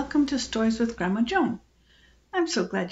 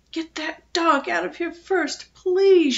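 put-on high-pitched child's demand, louder on the last word; shrieked plea; 8 semitones higher, 5 dB louder, slower than usual. A narrator's reading. Frightened girl begging her mother to remove the dog, high shriek. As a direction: plead high, bursting out on "please". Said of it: "shrieked Phoebe".

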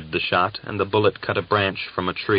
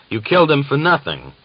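higher, louder outraged shout; 8 semitones higher, 6 dB louder than usual. A narrator's reading. Gregor confronts Uryupin over the dead prisoner, shouting. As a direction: cry out at the senseless killing. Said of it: "Gregor shouted".

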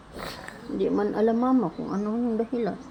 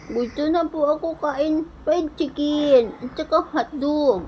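lightly voiced child, higher and pleading; child's prayer voice; 3 semitones higher than usual. Mother voicing her sick child praying, mildly higher and pleading. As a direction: plead with the Lord like a little one begging to get well.

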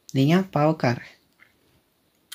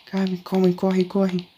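urgent; 5 semitones higher, slower than usual. Real, not acted. Urging herself to run.

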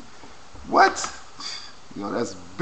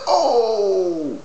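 higher, louder oh; retold shock; 9 semitones higher, 5 dB louder than usual. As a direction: replay the surprise. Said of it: "I was like".

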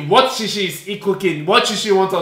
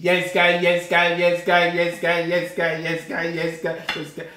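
fading out; 7 dB quieter than usual. Acted. Repeating intro fading out.

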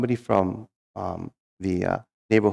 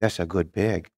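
lightly voiced tribal leader, mostly higher; 3 semitones higher than usual. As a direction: tell it as the admiring tribal leader. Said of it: "the tribal leader goes".

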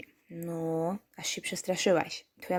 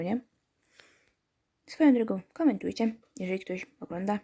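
ordinary talk, nothing marked

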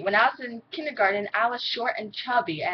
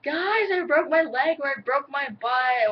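high, slow, louder wail of pain; mock scream; 8 semitones higher, 5 dB louder, slower than usual. Retelling how she screams to friends after a fall. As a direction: fake a dramatic injury. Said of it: "scream out and saying".

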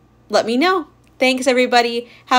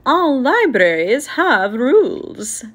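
firm, slightly raised librarian voice; stern librarian; 4 semitones higher, 3 dB louder than usual. Acted. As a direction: lay down the law kindly but firmly. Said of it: "said the librarian sternly".

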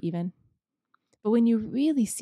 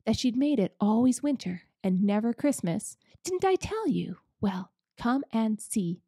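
crowing he was right; excited; 2 semitones higher than usual. Acted. Mister Beaver to the children, gleeful cry.

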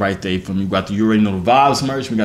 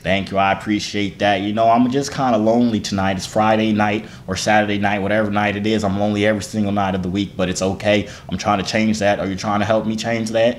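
put-on country accent; 2 semitones lower than usual. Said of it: "Why are you talking like that?".

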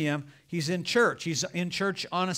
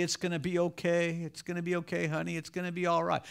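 softer, mock-soothing reassurance; mock compassion; 4 dB quieter than usual. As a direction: pretend to pamper the possessed person. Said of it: "be so compassionate to this person".

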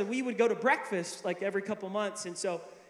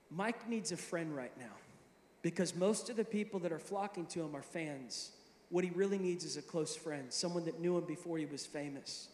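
gentle counsel; 3 semitones lower, 6 dB quieter than usual. Retold or imitated. Mentor's grave gentle counsel retold.

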